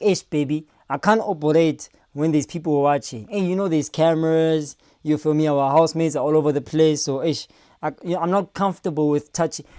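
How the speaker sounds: lightly voiced low, soft excuses; reluctant boyfriend. Boyfriend excusing himself to his girlfriend, mildly reluctant. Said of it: "And he's like".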